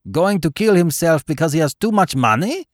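high, loud amused disbelief; quite tickled. A narrator's reading. Baron tickled by the figure's reason, high amused exclaim. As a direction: exclaim it, delighted at the absurd idea. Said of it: "exclaimed the Baron, quite tickled".

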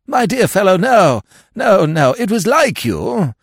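high, loud, hearty refusal; vague heartiness. A narrator's reading. Lord mistakenly declining a loan, vaguely hearty. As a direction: wave the offer away heartily. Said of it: "with a vague heartiness".

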